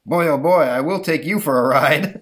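loud, eager cabbie voice; gleeful driver. Acted. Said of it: "says the, uh, the driver".

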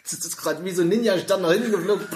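laughing through the words. Real, not acted. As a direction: still giggling from the choke. Laughs recounting swallowed candy.

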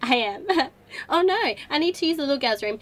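tipsy giggles through the words; giggling tipsy girl; giggly. Acted. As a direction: laugh it out, a bit drunk.

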